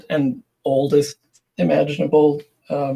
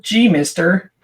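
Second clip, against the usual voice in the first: lightly voiced gee-whiz kid; a hint of an eager old-timey boy; wholesome 1950s kid; 2 semitones higher, 4 dB louder, slower than usual. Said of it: "starts every sentence with".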